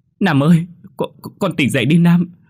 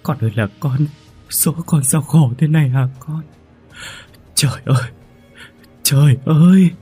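high, loud wailing blame; hoarse crying reproach; 7 semitones higher, 4 dB louder than usual. A narrator's reading. Mother wailing and blaming husband for the death. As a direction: sob and accuse him at once. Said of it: "khóc khan cả tiếng, ... trách chú Huấn".

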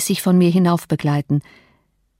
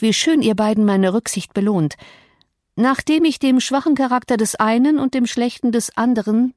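lightly voiced scornful young wife, a touch higher; mildly raised, mocking wife's voice; Catherine scornful; 4 semitones higher than usual. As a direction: taunt husband and lover with cold contempt.

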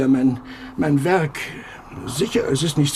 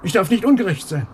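bitter echo; 2 semitones higher than usual. Acted. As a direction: repeat her words back, sour and mocking. Echoes wife's rebuke back.

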